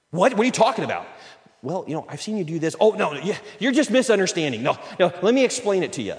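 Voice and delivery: a touch of hammed-up denial; defensive protest. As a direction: brush off the criticism, wounded. Defensive reply to criticism.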